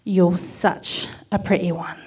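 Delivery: put-on English accent. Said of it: "said in an English accent".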